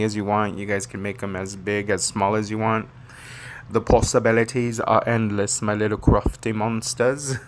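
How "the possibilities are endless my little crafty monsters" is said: lightly put-on accent, broad A in crafty. Crafter telling viewers possibilities are endless, put-on accent. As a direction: slip into a playful mock accent. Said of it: "why he always does that accent".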